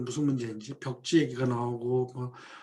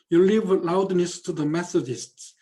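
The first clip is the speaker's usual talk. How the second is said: 1 slow read quote; 4 dB louder, much slower than usual. Acted. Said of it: "사이먼 스팀슨이 하는 말입니다".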